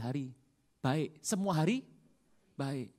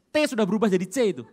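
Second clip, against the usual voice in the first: laughing; 4 semitones higher, 11 dB louder, faster than usual. Real, not acted.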